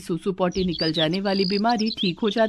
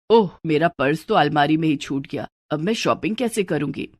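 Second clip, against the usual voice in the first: a touch lower, fretting over the forgotten purse; mildly worried older woman; lightly voiced mother-in-law; 4 semitones lower than usual. Mother-in-law realising she forgot her purse, mildly fretful.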